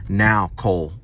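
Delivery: a touch of a stern teacher's warning; lightly voiced firm teacher calling his name. Teacher warning Cole, mildly stern. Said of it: "she was stern with me".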